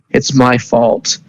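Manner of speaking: slow, broken confession of guilt; grief-stricken. Acted. Maruki blaming himself at his fiancée's bedside, slow and grieving. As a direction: drag it out like he's about to cry. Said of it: "he starts crying".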